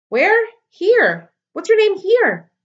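loud, high shouting; shouting across. A narrator's reading. Girl shouting after Ware as he leaves, loud and high. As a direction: yell it across the field.

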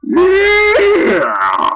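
high loud yell; real loud shout. Real, not acted. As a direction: scream it at the screen. Gamer shouting at game.

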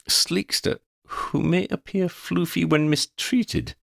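slow, lofty pronouncement; lightly pompous, slowed down; grand decree. Acted. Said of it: "Xander decreed".

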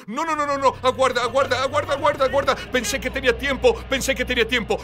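high, pleading panic in quick repeats; panicked man. Retold or imitated. Man begging the returning Lord to wait, high panic. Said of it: "Y un hombre dijo".

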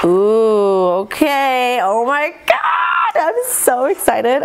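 high-pitched, drawn-out excited squeal; too excited. Real, not acted. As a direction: let excitement run away with you, voice soaring. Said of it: "sorry, I'm getting too excited".

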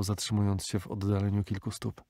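plain reading voice

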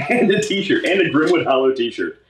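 bright, thrilled discovery; delighted to find it; excited. Real, not acted.

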